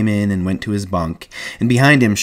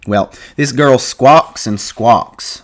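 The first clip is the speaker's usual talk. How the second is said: imitating squawk; 4 semitones higher, 4 dB louder, much slower than usual. George mimics the girl squawking.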